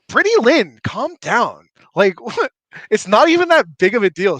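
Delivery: put-on dismissive mean girl, bored and bratty; a hint of a bratty Valley Girl. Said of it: "my Valley Girl voice".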